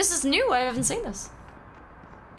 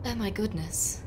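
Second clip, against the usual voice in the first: softly parroted British line; lightly mimicked British accent; 5 dB quieter, slower than usual. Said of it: "great at British accents".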